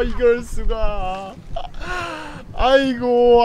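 ordinary talk

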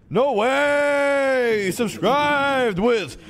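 high, loud thrilled outburst; real loud excitement over a new sub; excited shout. Real, not acted. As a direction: shout it like the best news ever. New sub announced on stream.

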